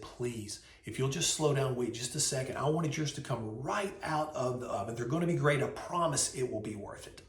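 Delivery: softly voiced, gentle appeal for patience; calm the hurried customer, keeping it soft; soothing plea. Server retold pleading for patience.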